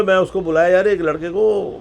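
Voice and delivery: loud, high ultimatum; pushy producer. Retold or imitated. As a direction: press him for a yes or no. Producer pressing for an answer.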